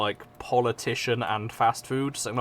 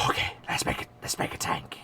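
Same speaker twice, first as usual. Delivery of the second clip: whisper; 9 dB quieter, faster than usual. Real, not acted. Muttering to self while building.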